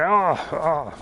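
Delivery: lightly voiced timid companion, slow near the end; a hint of a scared sidekick; voicing the companion. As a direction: play the nervous follower at the cave mouth. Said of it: "She might actually say".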